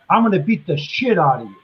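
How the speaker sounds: straight Northeastern Yankee accent. Shown as a demonstration. Showing the Australian how Yankees threaten, in a Yankee accent. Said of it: "this is the way us Yankees say it".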